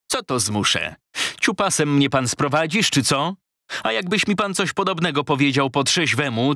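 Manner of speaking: a lightly voiced offended agent, rising in pitch; indignant Szprot. Szprot quarrels, voiced by reader. (oburzony kupiec, wyżej i z przekąsem)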